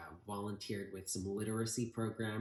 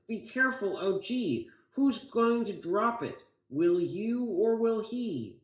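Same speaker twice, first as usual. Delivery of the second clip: much higher, louder, anxious pleading; shouted worry; 11 semitones higher, 9 dB louder than usual. Acted. Boy shouting his fear to Grandpa, anxious shout. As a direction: plead in panic as the bombs come out. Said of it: "I shouted".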